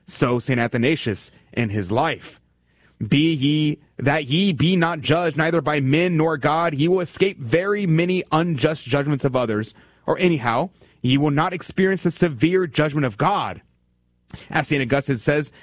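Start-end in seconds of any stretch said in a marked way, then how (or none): 3.0-13.6 solemn reading. Acted. Reading a quotation aloud.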